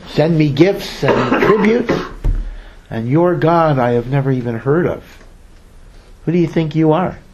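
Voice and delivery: mildly sarcastic, self-important ruler; lightly mock, drawing out the boast; acted scorn, a touch haughty; Paro. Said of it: "Paro mockingly and sarcastically says".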